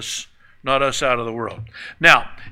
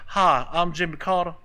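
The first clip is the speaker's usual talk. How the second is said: Jimmy Carter impression. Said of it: "when you listen to him talk".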